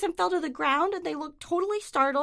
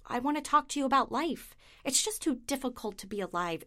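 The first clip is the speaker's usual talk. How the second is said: deadpan monologue; 3 semitones lower than usual. Acted. Neurotic comic monologue.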